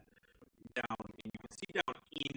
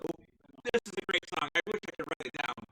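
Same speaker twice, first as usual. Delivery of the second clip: companion's voice, higher and louder; Gideon; 6 semitones higher, 8 dB louder, faster than usual. Acted. Game master as stealthy companion admiring his song, loud and carried away. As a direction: blurt it out high and loud, in character. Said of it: "And he's like".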